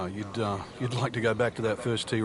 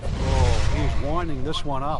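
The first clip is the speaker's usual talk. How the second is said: excited; 7 dB louder, slower than usual. Acted. Shot being hit live.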